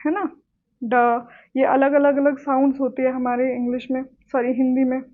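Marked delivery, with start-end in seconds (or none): 0.8-1.2 ड said alone with the tongue curled back; isolated retroflex ड, demonstrated for learners. Shown as a demonstration. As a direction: sound out ड as a voiced retroflex stop. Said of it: "reflexive sound हमारे में common होती है".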